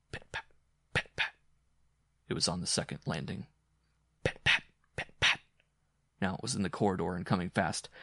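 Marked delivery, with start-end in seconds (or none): 0.1-1.3 distant pattering footsteps. A narrator's reading. Distant footsteps approaching, imitated. 4.2-5.4 crisp, unpitched pit-pat; nearer pattering footsteps. A narrator's reading. Footsteps coming closer, imitated.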